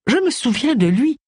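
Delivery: put-on high, nasal old-lady remembering; nasal old aunt. A narrator's reading. Old aunt remembers the victim as a young man, high and nasal. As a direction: recall him fondly in a high nasal elderly voice.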